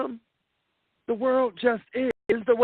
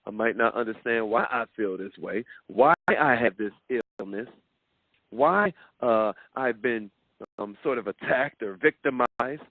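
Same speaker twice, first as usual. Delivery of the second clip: lower, earnest owning-it voice; lower, steady and earnest, owning it; sincere self-affirmation; 6 semitones lower than usual. Shown as a demonstration. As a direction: say it to yourself calmly and sincerely. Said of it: "Sometimes you gotta say to yourself".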